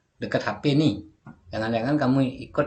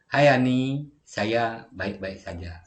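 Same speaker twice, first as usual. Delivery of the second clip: saya baik-baik saja said slowly; slow model translation; much slower than usual. Shown as a demonstration. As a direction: spell out the Indonesian reply. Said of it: "Dijawab sama Laras".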